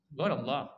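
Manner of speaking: "Qaulullah" with a hard g, as "Golallah"; "Qaulullah" opening on a hard g; dialect G sound. Shown as a demonstration. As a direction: say "Qaulullah" with g in place of qaf. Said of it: "Go-, Qaf beda go".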